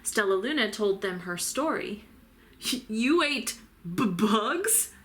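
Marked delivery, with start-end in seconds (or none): 2.7-4.9 stuttering. A narrator's reading. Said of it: "stuttered one".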